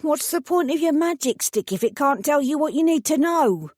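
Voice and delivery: a hint of a prickly old lady brushing off questions; old woman Rose. A narrator's reading. Stubborn old woman dodging the fairy godmother's question, lightly voiced.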